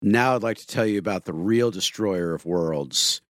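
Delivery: youth pastor sermon voice. Pretend. Mock pastor turning to sermon.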